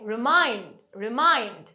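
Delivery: রিমাইন্ড with strong falling মাইন্ড; light রি, firm মাইন্ড in রিমাইন্ড; stress on root word. Shown as a demonstration. Teacher drilling derived words, রিমাইন্ড stressed on মাইন্ড. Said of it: "main ওয়ার্ডটাতে আমরা সবসময় stress দিই".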